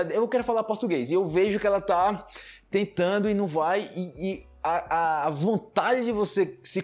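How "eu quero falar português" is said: put-on pitched-up girlfriend's voice; imitating the girlfriend. Girlfriend insisting on practising Portuguese, higher mock voice. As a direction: lightly play the eager learner, higher.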